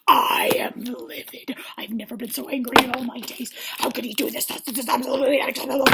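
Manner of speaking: hammed-up whispered fury; mock indignant contestants; mock livid. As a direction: do a fake-outraged aristocrat. Voicing furious contestants.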